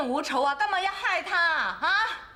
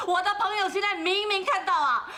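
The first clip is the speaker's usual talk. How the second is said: normal talking voice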